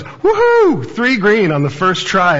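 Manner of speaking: high, loud whoop of delight; cheering. Retold or imitated. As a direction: crow with triumph over the first guess. Wife cheering at her Wordle.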